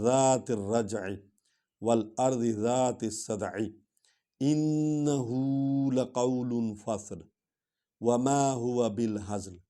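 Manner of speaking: slow melodic tilawat; Quran recitation. Acted. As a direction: recite the closing verses in measured tajweed.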